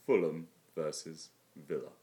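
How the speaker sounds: slow flat results reading; Alan Lambourne impression. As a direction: read the fixture slowly, like a robot. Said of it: "do your Alan Lambourne impression".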